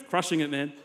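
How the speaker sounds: soft, low lazy bro voice; laid-back surfer bro. Acted. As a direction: toss it off like a chill surfer. Acted casual bro reply.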